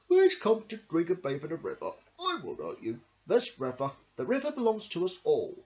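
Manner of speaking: lightly voiced kind crocodile; friendly crocodile. Crocodile inviting all animals to the river, friendly. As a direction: invite them all in warmly. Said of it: "he said".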